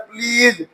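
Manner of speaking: प्लीज ending in a buzzed "z", long ee. Shown as a demonstration. Teacher explaining that S sounds like Z, प्लीज with a final z. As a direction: end प्लीज on a Z, not an S. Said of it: "जे की आवाज दे रहा है".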